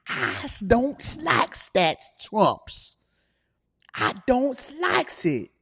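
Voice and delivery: put-on old person voice.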